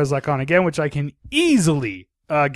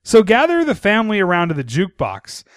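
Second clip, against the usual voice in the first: reading a review aloud; 3 semitones higher than usual. Shown as a demonstration.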